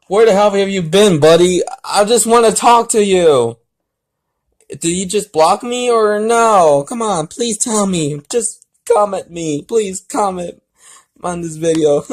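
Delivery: high, loud mock-desperate pleading to a friend; pleading call-out. Real, not acted. YouTuber begging his missing friend to comment, high pleading call. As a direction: beg your missing buddy to answer. Calling out to absent friend online.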